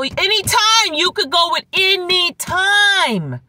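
high and slow proclaiming; preaching shout. Acted.

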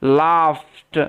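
Laughed said "laft", with an f sound for the gh; Laughed, short a and a clear f; teacher models Laughed, gh sounding like f. Shown as a demonstration. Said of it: "জিএইচ এর উচ্চারণটা ফয়ের মতো হবে".

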